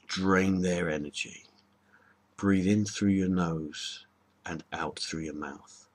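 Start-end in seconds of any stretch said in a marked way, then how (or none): 2.4-5.9 slow instructive. Shown as a demonstration. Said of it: "In through the nose, out through the mouth".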